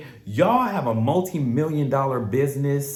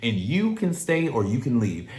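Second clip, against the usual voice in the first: voicing the couple; 5 semitones higher than usual. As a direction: brag like a couple showing off. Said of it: "tell the cameras, like".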